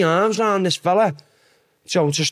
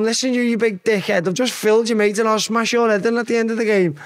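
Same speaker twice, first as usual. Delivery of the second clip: retold threat yell; 6 semitones higher than usual. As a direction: bark it up at the stand like a cocky young lad. Yelling at fans from bench.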